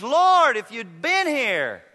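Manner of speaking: Martha's pained, slow plea to Jesus; a grieving sister's loud cry of Lord, then slowing; disappointed plea. Acted. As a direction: let the disappointment sit in every word. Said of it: "You hear the disappointment in Martha's voice".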